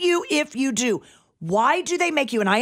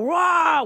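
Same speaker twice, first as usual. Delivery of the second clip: T-Rex roar; 5 semitones higher than usual. Shown as a demonstration. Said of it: "how does the T-Rex go?".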